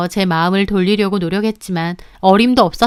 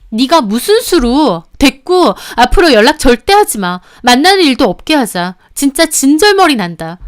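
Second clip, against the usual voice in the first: disgusted dismissal; 4 semitones higher, 5 dB louder than usual. Acted. Mistress cuts off all contact, disgusted. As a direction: end it with disgust. Quarrel in recorded phone call.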